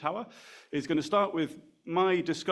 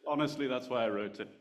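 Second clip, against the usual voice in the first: laughing. Real, not acted. Laughs at the intro joke.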